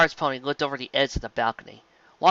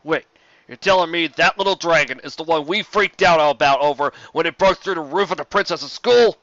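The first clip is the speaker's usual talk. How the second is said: incredulous; 4 semitones higher, 6 dB louder than usual. Acted. Incredulous exclaim.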